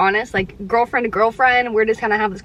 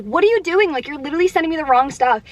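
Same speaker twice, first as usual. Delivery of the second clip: exasperated; 4 semitones higher, faster than usual. Retold or imitated. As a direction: vent it fast and fed up. Exasperated quote at pharmacy.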